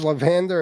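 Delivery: "lavender" stressed on VAN, la-VAN-der; wife's pronunciation. Retold or imitated. Host mocking how rival's wife says it, mispronouncing "lavender". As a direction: imitate the wife's odd "lavender", middle syllable punched. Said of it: "Your wife has a Russian accent".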